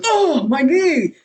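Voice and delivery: high, slow mock wail of pain; screaming. Johnny landing hard on his knee, mock wail. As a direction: ham up a wail over a hurt knee. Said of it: "screaming about his knee".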